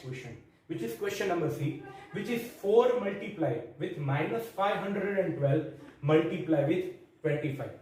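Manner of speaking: reading the question out very slowly, word by word; slow dictation. Acted. Teacher dictating the question to students, very slow. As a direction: spell the sum out slowly for the class to copy.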